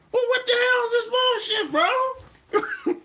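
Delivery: very high squealed protest; outraged disbelief. Retold or imitated. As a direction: shriek it in comic disbelief. Outraged at the New York slang.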